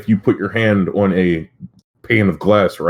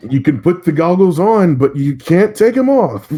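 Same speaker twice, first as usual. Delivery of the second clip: high mock-sinister voice; 9 semitones higher than usual. Ominous joke about the goggles.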